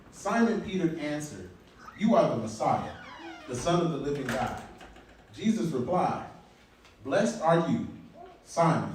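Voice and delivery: measured public Bible reading; preacher reading scripture aloud. Acted. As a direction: read the passage out in deliberate, separated phrases. Reads scripture aloud to congregation.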